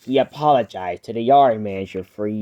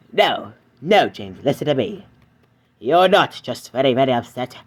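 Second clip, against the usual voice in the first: Edward's voice. Acted. Edward answers James, lower.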